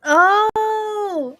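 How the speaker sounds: high, loud startled cry; surprised shout. Real, not acted. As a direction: blurt it out in shock. Suddenly remembers a scene.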